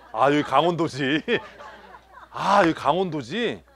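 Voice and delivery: laughing through the words; amused realisation. Real, not acted. Pastor realising everyone is from Gangwon, laughing.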